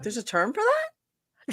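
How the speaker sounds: laughing. Real, not acted. Laughing disbelief at a phobia name.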